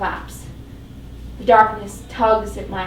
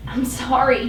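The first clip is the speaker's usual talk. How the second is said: "sorry" falling, gently begging; pleading; 3 semitones higher than usual. Acted. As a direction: plead for her forgiveness. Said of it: "he pleads".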